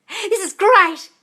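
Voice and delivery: high, loud, drawn-out mock awe; re-enacted excitement. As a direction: act out a thrilled first reaction. Re-enacts friends' reaction to film.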